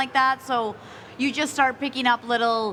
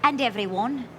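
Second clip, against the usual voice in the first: attempted Irish accent. Shown as a demonstration. Attempts accent on a game line.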